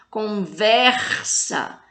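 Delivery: "Conversa" very slow, VER drawn out; teacher's long stress on VER in "Conversa"; tonic syllable stressed. Shown as a demonstration. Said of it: "fala com mais intensidade".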